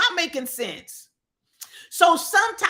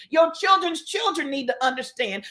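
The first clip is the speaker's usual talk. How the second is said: raised, shouted appeal; preaching shout; 2 semitones higher than usual. Real, not acted. Host urging listeners, preaching shout. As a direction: call it out to the elders.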